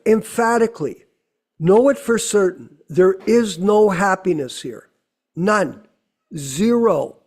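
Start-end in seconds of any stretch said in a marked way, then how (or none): 1.6-7.2 firm, stressed quotation; emphatic. Retold or imitated. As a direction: drive home every word. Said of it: "Prabhupada further states emphatically".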